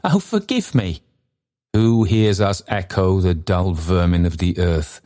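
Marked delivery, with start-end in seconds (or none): 0.1-1.0 put-on high, begging old man; pleading old man. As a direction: beg forgiveness, voice up high. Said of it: "said Trotty".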